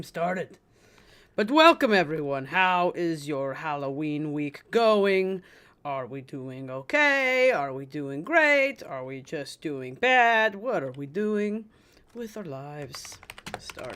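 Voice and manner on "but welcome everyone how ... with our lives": cheery welcome. Real, not acted. Lively loud welcome to chat.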